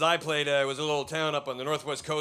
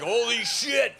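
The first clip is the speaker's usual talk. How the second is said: redneck friends; 4 semitones higher than usual. Retold or imitated. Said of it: "my redneck racist friends".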